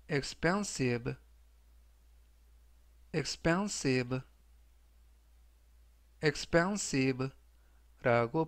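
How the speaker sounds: very slow, each syllable of "expensive" stretched out; slow vocabulary drill; slow careful reading. Shown as a demonstration. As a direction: say "expensive" slowly so students can repeat. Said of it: "제가 천천히 세 번씩 읽어드리고요".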